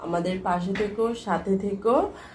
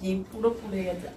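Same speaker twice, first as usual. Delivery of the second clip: talking with a burning mouth; mouth burning from salt. Real, not acted. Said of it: "মুখ টুক পুড়ে যাচ্ছে".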